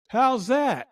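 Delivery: high, challenging retold question; drill sergeant. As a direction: lightly imitate a Marine's comeback. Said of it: "he was a drill sergeant".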